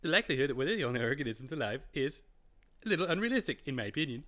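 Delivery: lightly done cartoon boy voice; a bad imitation of a cartoon kid; Jimmy from South Park. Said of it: "my Boston voice is me just doing a really bad imitation of Jimmy from South Park".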